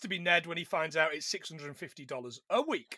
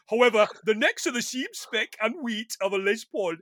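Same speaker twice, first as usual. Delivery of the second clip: a light put-on Geordie accent; quick Geordie accent try; 3 semitones higher, 4 dB louder than usual. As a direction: read it in a posh Geordie accent. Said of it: "I should be doing this in the accent".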